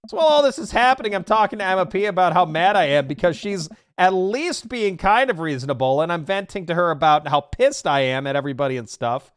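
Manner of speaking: put-on fast high teen rant; agitated teen daughter.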